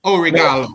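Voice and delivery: attempting obrigado in Portuguese; tried Portuguese. Shown as a demonstration. Learner trying Portuguese thanks, says obrigado. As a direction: sound it out carefully as obrigado. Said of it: "That's what I got".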